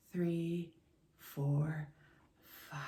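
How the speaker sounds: counts breathed out softly, trailing away; quiet counting on the exhale. Shown as a demonstration. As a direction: coach counting the class through a slow exhale, soft. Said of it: "Exhale for five".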